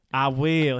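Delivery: put-on lightly twangy Southern accent; Joe Exotic. Trying out the show's Southern accent for a co-host, light twang. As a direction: put on a bit of a Southern drawl. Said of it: "Say it in the accent".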